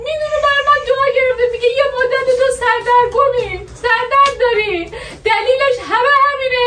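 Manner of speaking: hammed-up tearful complaint to her husband; mock crying.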